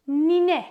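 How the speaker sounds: Nine said slowly as one whole word; dictating. Shown as a demonstration. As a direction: say Nine clearly, lips visible. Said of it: "kelimeyi bir bütün halinde söylüyoruz".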